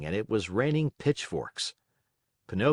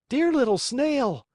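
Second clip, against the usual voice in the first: high, louder call up to the window; cried out; 5 dB louder than usual. Acted. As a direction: shout up from the street. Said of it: "cried Pinocchio from the street".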